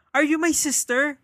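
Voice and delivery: slow, high mock British accent. Stranger asking a schoolgirl, in mock British accent. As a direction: put on a posh British lilt. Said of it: "With accent yan".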